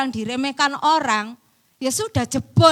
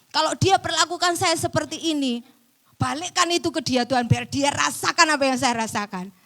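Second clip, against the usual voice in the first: raised-pitch imitation of a complaint; retold protest; 4 semitones higher, 3 dB louder than usual. Preacher retelling how they protested to God about someone, mildly indignant. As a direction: press the grievance, mildly indignant. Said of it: "Saya protes sama Tuhan seperti itu".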